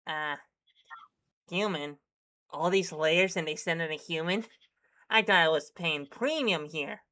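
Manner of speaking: raspy pack-a-day smoker voice; smoker's rasp. Acted. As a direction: gravel it out like a chain smoker. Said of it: "your best, uh, pack-a-day voice for this character".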